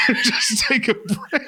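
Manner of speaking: high, slow laughing drawl; milk it as the snacker; a hint of hick voice; hammed-up redneck. Said twice, first hammed.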